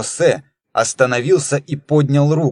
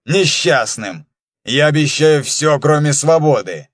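angry. Acted. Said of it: "злобно произнёс".

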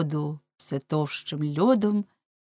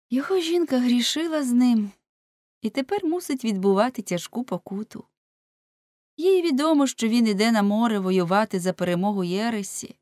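higher-pitched penitent woman; побожна жіночка; 5 semitones higher than usual. Acted. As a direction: plead for the husband in a raised woman's voice. (високий голос жінки, що кається)

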